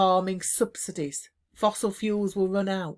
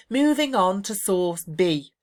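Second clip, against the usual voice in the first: slow and louder, clearly signposted; model phrases; 4 semitones higher, 5 dB louder, slower than usual. Shown as a demonstration. Teacher demonstrating exam signposting phrases, slow and clear. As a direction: announce each source slowly like a presenter. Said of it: "so you'd say".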